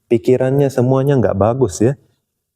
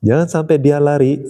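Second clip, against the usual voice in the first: mock yelling; 5 semitones higher than usual. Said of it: "diteriakin pula sama si Gagak".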